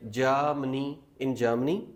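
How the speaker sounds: Germany said "jamni" with no r; no r sound. Shown as a demonstration. Teacher showing Germany without the r. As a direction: drop the r in Germany entirely. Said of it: "आर की sound लानी ही नहीं है".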